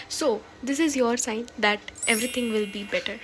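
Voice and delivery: slow, breathy whisper of comfort. Real, not acted. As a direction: whisper it slowly like a secret promise. Closing encouragement to viewers.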